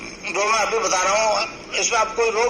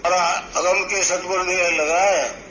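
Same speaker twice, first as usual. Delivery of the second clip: reciting a couplet. Shown as a demonstration. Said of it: "Kabir ने कहा है".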